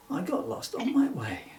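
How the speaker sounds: hushed, sad admission; sad whisper. Acted. Bill telling Emily he is lost, sad whisper. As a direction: let it sink into a whisper.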